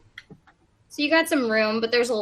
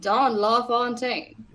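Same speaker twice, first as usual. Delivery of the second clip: movie trailer voice; much slower than usual. Acted. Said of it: "movie trailer voice".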